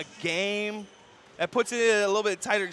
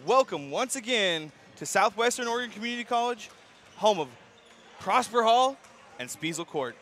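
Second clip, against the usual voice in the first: sports announcer welcome. Real, not acted. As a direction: welcome the crowd like an arena host. Announcer opens the broadcast.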